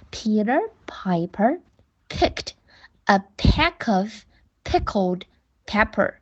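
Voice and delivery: tongue twister read slowly, phrase by phrase; slow model reading. Shown as a demonstration. Teacher reading the tongue twister to pupils, slowly. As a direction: lay each chunk out for the kids. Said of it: "teacher models tongue twister".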